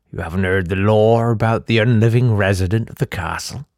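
lightly voiced barkeep giving a grave warning; wary barkeep. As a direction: warn like a superstitious innkeeper.

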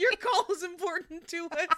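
like a recorded customer service line; phone menu voice. Pretend. Mock hold message.

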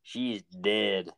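lightly voiced accusing lawman, slowing down; put-on sheriff voice. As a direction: interrogate like a movie sheriff, drawn out at the end. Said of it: "You're just doing the voices".

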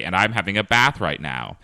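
light Scottish accent. Shown as a demonstration. Host demonstrating the podcast tagline, in a Scottish accent. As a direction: say it with a Scottish lilt. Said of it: "move to a Scottish accent".

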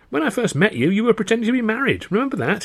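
chuckling as you recall. Acted. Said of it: "he chuckled".

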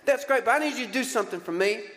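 mock heckler demanding his inheritance. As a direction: play the rude guy in the crowd making demands. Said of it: "He yells out, and he's like".

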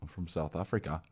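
tentative South African impression; South African accent. Improvising an old man from South Africa, attempted South African accent. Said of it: "do a South African accent".

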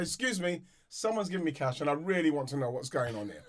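lightly voiced posh toff; a hint of a prim posh man. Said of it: "I love the way you put on a posh voice".

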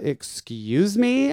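sarcastic excuse me. Retold or imitated. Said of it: "And I was like".

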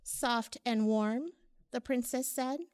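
put-on lilting read-aloud for children; rhyming picture book read warmly aloud; storybook narration. A narrator's reading. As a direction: tell it like a bedtime story to little ones.

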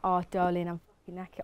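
put-on Southern English accent; lightly mimicked Southern English accent. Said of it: "even when I'm around Southerners".

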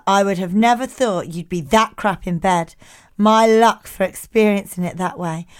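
deadpan reading in a light put-on accent; Keith accent. Keith texting his verdict to Jemima, in a light Keith accent. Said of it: "Do it in a Keith accent".

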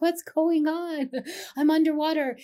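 mock plaintive, softened retelling; bewildered but gentler, pitched high; gentler retold cry. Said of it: "I said it more gently".

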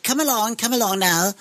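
high-pitched mock posh accent; posh mother. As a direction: imitate a posh mum herding her children. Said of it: "she was a bit posh".

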